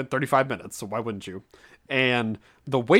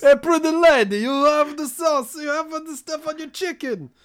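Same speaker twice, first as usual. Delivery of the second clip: put-on much higher, loud New Jersey Italian accent; mock Italian accent; 5 dB louder than usual. Host mocking a flirty waiter, higher hammed-up Italian accent. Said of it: "You're Italian as you're New Jersey".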